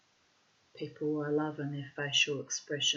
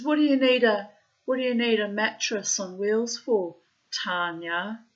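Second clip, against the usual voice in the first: louder, higher incredulous query; acted baffled question; 3 semitones higher, 8 dB louder than usual. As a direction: play the boyfriend puzzled and insistent. Boyfriend questions her, acted.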